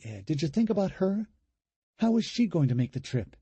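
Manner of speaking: high, heated disbelieving challenge; incredulous protest. Acted. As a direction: tear into his plan, outraged. Julie argues against leaving.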